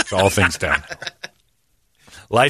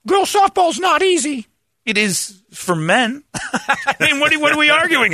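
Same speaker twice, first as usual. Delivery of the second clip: high, slow, put-on voice; mock macho voice. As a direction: play the smug jock, drawn out.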